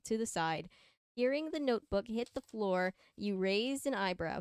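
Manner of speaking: measured fan-fiction read-aloud; story narration. A narrator's reading. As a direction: read it out like a storybook, leaning on key words.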